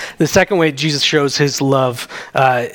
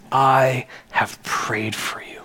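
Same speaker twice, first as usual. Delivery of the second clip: slow, tender whisper; 2 semitones lower, 4 dB quieter, slower than usual. Acted. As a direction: breathe it slowly like a private promise. Jesus' words repeated to Peter.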